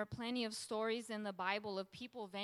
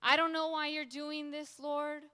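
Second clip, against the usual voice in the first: raised, pleading protest; louder, higher cry of confusion; wrestling with God; 4 semitones higher, 5 dB louder than usual. Acted. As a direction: question God with urgency. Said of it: "He goes from wrestling".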